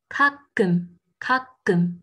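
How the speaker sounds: "kakum" crisply split, with hard unvoiced second k; tense middle K. Shown as a demonstration. Teacher giving a last example, tense middle K. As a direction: stop briefly inside "kakum", then a tight k. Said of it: "j'ai dit kakum".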